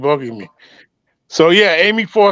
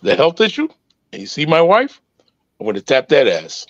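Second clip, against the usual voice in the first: Obama voice; 5 semitones lower than usual. Retold or imitated. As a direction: lower Obama impression. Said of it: "my favorite right now is, uh, was Obama".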